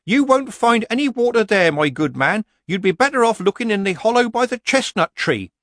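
a yokel putting on a witch's polite voice; prim Granny quoted by villager. Retold or imitated. Villager quoting Granny's advice to Nanny.

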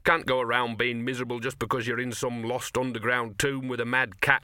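lightly voiced sardonic mongrel; a hint of dog, grumbling. Gaspode the dog speaks.

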